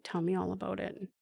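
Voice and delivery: quiet, tender retold reassurance; soft voice of a comforting mother; gentle coaxing. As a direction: softly invite them to open up. Retold comfort after hugging her kids.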